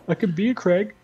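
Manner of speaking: high seductive purr; flirty high voice. Pretend. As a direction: tease like a flirt. Flirty put-on voice.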